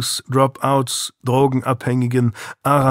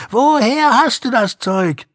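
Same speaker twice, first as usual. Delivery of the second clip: even higher, louder repeat of the gang shout; shouted demand; 12 semitones higher, 4 dB louder than usual. Retold or imitated. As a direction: yell it once more, harder. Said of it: "schrien sie".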